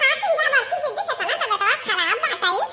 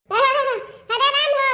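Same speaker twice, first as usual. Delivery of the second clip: stretched slow mock wail; drawn-out groan; much slower than usual. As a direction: drag out the moan.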